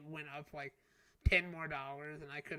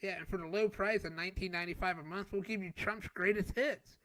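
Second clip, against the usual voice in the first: hammed-up TV ad pitch, louder; infomercial voice; 3 semitones higher, 5 dB louder than usual. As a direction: sell it like a late night ad. Parodies TV ad pitch.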